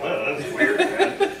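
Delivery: weirded-out player. Retold or imitated. Acted player hearing own voice.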